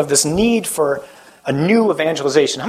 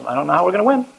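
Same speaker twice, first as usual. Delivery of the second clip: mock despair; 4 semitones higher, faster than usual. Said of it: "and I think".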